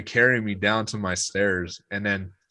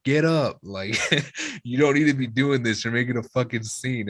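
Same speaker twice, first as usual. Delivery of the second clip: exasperated mom, slightly raised at the start; mildly pissed off; 3 semitones higher than usual. Retold or imitated. Mom telling drunk son on the floor off, annoyed. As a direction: imitate a fed-up mother scolding. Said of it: "getting pissed".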